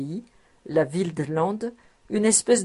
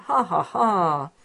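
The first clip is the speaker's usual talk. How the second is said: deliberate, slow "ha, ha, ha"; spoken stage laugh; slower than usual. A narrator's reading. Tax collector pleased at friend's decision, acted laugh. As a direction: voice a measured, acted chuckle.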